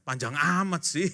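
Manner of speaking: slow, drawn-out grumble; mock complaint. Son complaining about a long Bible chapter, grumbling.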